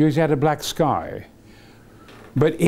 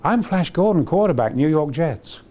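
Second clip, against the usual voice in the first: imitating Flash. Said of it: "He said".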